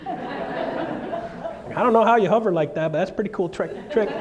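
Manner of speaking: high, slow, laughing disbelief; amazed laughing aside. Real, not acted. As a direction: giggle through the words in wonder. Laughing at flying dog.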